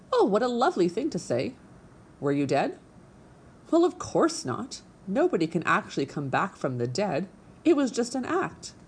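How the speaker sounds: a vain little stage diva; theatrical opossum. Acted. Narrator voices theatrical opossum.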